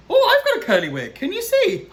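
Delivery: giggly joke. Real, not acted. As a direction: giggle about your own wig. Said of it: "reader jokes about her wig".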